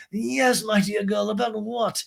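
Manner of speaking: high, put-on older-friend voice; Lisa. Recapper playing Lisa answering Ariana, high put-on voice.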